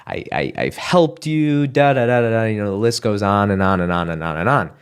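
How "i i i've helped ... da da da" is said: raised pitch, accusing rant; hurt, rising complaint; angry venting. Retold or imitated. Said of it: "something to the effect of".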